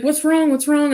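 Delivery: high, urgent mock-worried questioning; alarmed father. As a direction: imitate a worried dad on the phone. Retold alarmed father on phone.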